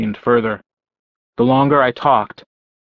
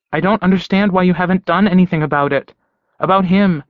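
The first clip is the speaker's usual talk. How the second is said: insistent, raised voice; 7 semitones higher than usual. A narrator's reading. Jessie pushing, loud and high.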